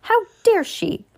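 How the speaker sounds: high-pitched outraged exclamation; indignant cry. A narrator's reading. Mother sees a duck cooking in her kitchen, indignant high cry. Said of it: "cried Missus Gregg".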